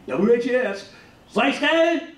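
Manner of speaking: lightly voiced kid, pitch rising on Zeiske; mock kid asking the DJ; kid calling the radio. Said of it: "he's saying, "Is there school?".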